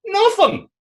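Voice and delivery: sudden outburst. Acted. A man answering his own question with a sudden high cry. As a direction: throw out the answer with a jolt.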